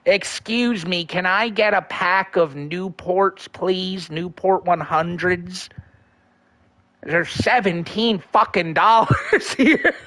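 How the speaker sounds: slow put-on voice, breaking into a laugh at the end; mock Josh asking for cigarettes; Josh Block impression. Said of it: "favorite impression ... Josh Blocks".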